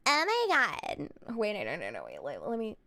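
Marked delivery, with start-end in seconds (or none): 0.1-1.1 lightly put-on Valley girl drawl; Valley girl accent. Streamer mimicking her airport act, Valley girl voice. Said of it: "I kept doing a fake white girl voice".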